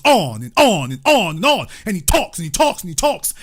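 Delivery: "on" and "talks" punched in a repeating singsong swing; mocking endless rambling. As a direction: hammer each "on" and each "talks" in a rolling loop. Mocking someone's endless talking.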